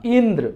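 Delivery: इंद्र with a stretched इं, then falling; emphatic opening syllable in इंद्र; stress on first vowel. Shown as a demonstration. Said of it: "ई पर बल दिया".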